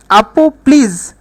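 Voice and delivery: slow, calm আপু প্লিজ; soothing slow plea. Shown as a demonstration. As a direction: say আপু প্লিজ gently and slowly, like asking politely. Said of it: "শান্তভাবে বলতেছো".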